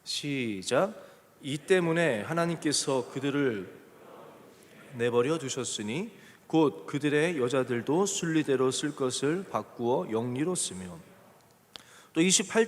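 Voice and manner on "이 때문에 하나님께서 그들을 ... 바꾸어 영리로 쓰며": slow, measured verse reading; scripture reading. Acted. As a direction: lead a congregation reading aloud together. Leads congregation in scripture reading. (천천히 또박또박 성경 봉독)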